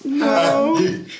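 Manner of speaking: high, scared prisoner squeak; frightened captive voice. Acted. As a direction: whimper it like a terrified captive. GM voicing frightened captive NPC.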